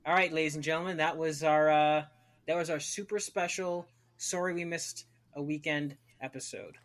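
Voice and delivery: booming announcer voice; loud announcer. Shown as a demonstration. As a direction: announce it like a grand finale. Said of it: "do the party horn episode".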